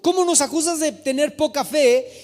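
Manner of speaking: mock-indignant disbelief; incredulous protest. Voices incredulous protest at the verse.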